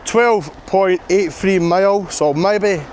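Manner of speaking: exhausted. Real, not acted. Exhausted progress report.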